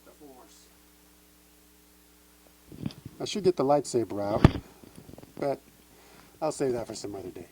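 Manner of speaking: muffled behind a helmet mask; talking inside a costume mask; through a face mask. Real, not acted. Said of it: "hopefully you can hear me through the mask here".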